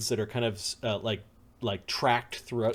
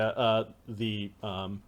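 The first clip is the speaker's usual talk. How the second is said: ordinary talk, nothing marked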